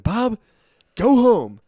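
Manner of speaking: high, sharp angry order; angry firing. Retold or imitated. Boss firing his own brother, angry and loud. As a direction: fire him on the spot, angrily. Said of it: "getting so fucking mad".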